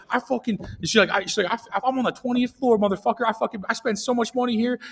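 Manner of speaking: mock-furious high rant; imitating angry rich lady. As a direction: ham up an entitled lady going off. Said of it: "she, like, goes off".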